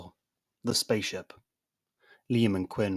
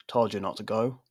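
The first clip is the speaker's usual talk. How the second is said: disappointed parent. Acted. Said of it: "much like a disappointed parent would".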